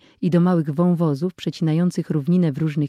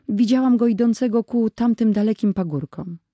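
put-on little girl voice; 6 semitones higher, 3 dB louder than usual. Little sister speaking.

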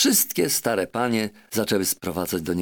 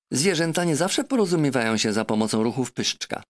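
higher, lecturing parrot voice; shrill lecturing parrot; 5 semitones higher than usual. Acted. Parrot lecturing the doctor, shrill and higher. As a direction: squawk a know-it-all lesson. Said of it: "pouczała papuga piskliwie".

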